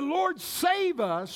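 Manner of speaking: high, slow pleading call to the Lord; cry for help. Retold or imitated. Disciples crying to the Lord in the storm, a pleading call. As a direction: call out as if the boat is sinking. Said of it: "this is a cry for help".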